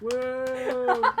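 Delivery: high, loud wonder-struck whoa; impressed whoa. Retold or imitated. A few druids in the crowd cheer in loud awe. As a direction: gasp in awe. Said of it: "four or five people who are like".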